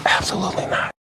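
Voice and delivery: high, hushed whisper, barely voiced. Answering whether he broke any laws regarding women: whispering. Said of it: "Or is he whispering?".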